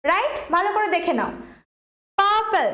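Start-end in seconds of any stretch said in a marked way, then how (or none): 2.2-2.7 পার্পল with strong, held পার; stress on first syllable. Shown as a demonstration. Teacher checking students heard it, পার্পল stressed on পার. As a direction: press on পার and drop পল in পার্পল. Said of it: "পড়লো তো বেশি জোর".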